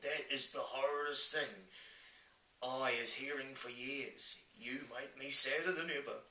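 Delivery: heartfelt giant outcry, emphatic and sorrowful; upset friendly giant. Acted. Giant upset, about to weep.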